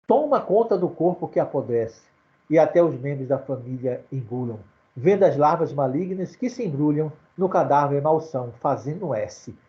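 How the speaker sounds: measured recitation of the verse; poem recital. Acted. Teacher reciting Augusto dos Anjos to the class, measured verse. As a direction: lean into the final rhyme.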